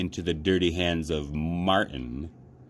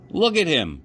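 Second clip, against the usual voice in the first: put-on high, louder jeering boy; mocking boy; 10 semitones higher, 5 dB louder than usual. A narrator's reading. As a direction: jeer at the doll for the crowd. Boy mocks the naked rabbit.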